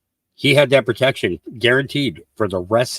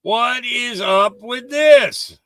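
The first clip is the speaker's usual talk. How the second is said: very slow, drawn-out incredulous; 9 semitones higher, much slower than usual. Shown as a demonstration. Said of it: "repeat with other take".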